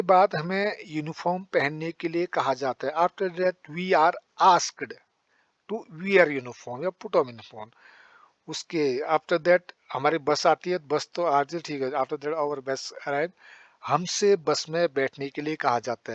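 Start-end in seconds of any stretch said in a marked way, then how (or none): 2.9-7.7 very slow, word by word for the class; slow classroom dictation. Shown as a demonstration. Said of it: "जब मैं जो बोल रहा हूँ उस पर ध्यान देना". 11.9-13.3 very slow, word by word for the class; slow classroom dictation. Shown as a demonstration. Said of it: "जब मैं जो बोल रहा हूँ उस पर ध्यान देना".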